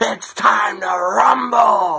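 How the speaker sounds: stretched-out, rumbling ring announcer voice. Impression of opening the Royal Rumble, Vince Royal Rumble announcement. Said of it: "that is my impression of what Vince sounded like when he used to open the Royal Rumbles".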